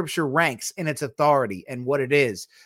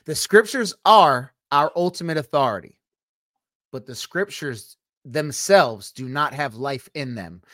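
emphatic repeat. Real, not acted. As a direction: spell it out, leaning on each key word. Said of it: "Let me say it again".

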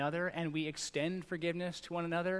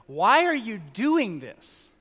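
put-on kid's whine; 6 semitones higher, 11 dB louder, much slower than usual. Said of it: "one of them was like".

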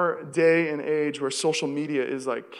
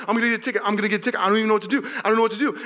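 mock panic; 4 semitones higher, much faster than usual. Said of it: "I'm literally, like, panicking".

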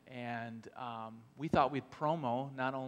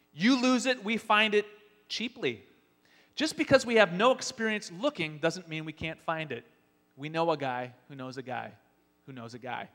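ad announcer. Acted. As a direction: pitch it like a bargain commercial. Spoof ad continues.

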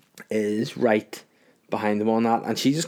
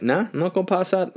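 high dismissive sneer; mocking old MP; 9 semitones higher than usual. Podcaster mimicking an old Tory MP refusing the bill, high and sneering. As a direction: toss it off like a stubborn old man. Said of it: "was like".

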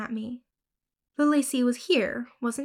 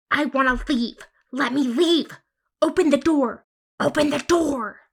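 shrill, rising yells, much higher and louder; tantrum screaming; 4 semitones higher, 6 dB louder than usual. Acted. Girl screaming at the locked house door. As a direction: scream to be let out. Child's tantrum demanding to leave.

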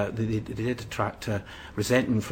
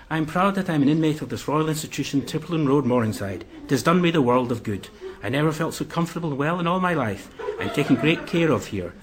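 higher and louder, proudly enthused; enthusiastic; 5 semitones higher, 4 dB louder than usual. Retold or imitated. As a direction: read it like a proud, delighted patient.

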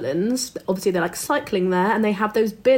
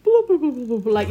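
wobbly time-warp sound effect; 3 semitones higher, faster than usual. Shown as a demonstration. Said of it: "that sound effect where it's like".

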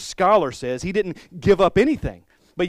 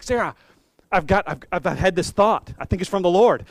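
calling out; 3 semitones higher, 6 dB louder than usual. Retold or imitated. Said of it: "calling out for Sarah".

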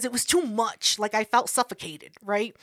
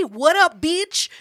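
higher, louder hello to a pal; habitual greeting; 5 semitones higher, 4 dB louder, slower than usual. Shown as a demonstration. Friend showing how she calls people, loud high greeting. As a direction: demonstrate your exuberant phone greeting. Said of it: "that's how I call people".

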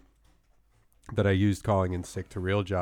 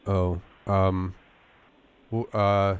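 fake sick voice. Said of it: "my fake sick voice".

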